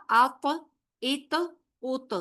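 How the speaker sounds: "ات" ends with a bouncing echo of ta; qalqala demo. Shown as a demonstration. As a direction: bounce the final ta in "ات" and "اوت". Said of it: "کیسے ادا ہوگا؟".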